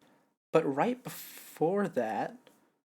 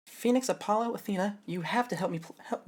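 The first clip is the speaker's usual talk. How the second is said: higher, half-hearted plea; a plea that misses the tune; first try, wrong intonation; 6 semitones higher than usual. Shown as a demonstration. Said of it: "no, that's not it".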